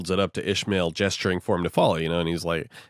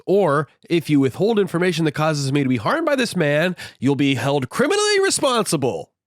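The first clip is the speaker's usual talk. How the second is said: ranting indignantly in a raised pitch; flipping out; 4 semitones higher than usual. Retold or imitated. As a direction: act out an exasperated, mounting tirade. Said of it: "he basically flips the fuck out".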